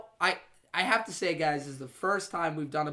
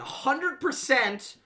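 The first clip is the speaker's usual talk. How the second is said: slow, deliberate official decree; slow proclamation; much slower than usual. Acted. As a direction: drag out each word like a verdict. Mock official podcast declaration.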